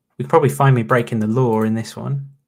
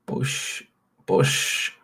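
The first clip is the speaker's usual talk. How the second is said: whispered mock impact. Real, not acted. Whispered sound effect.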